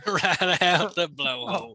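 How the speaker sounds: chuckling through the quote; laughing repeat. Retold or imitated. Friend echoes the joke line, laughing. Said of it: "laughing repeat".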